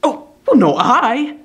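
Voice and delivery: high, loud fawning; obsequious cry. A narrator's reading. Brass fawning over insulting Quilp, obsequious. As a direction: cry out to please. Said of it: "said Samson".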